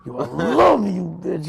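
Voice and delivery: high, loud, drawn-out impression; Headquarters, forceful. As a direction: imitate a friend's explosive affection. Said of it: "everything is just forceful".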